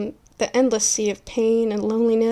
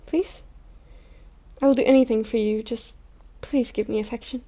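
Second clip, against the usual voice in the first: desperate pleading. Acted. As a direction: beg for affection, losing your cool. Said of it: "I lost my cool a bit".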